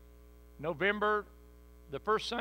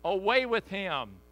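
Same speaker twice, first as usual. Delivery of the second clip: angry crowd; 3 semitones higher, 5 dB louder than usual. Acted. Crowd crying out for crucifixion.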